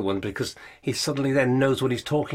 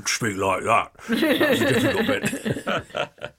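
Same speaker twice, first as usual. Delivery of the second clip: laughing; 11 semitones higher, much slower than usual. Real, not acted. Laughing about the conkers line.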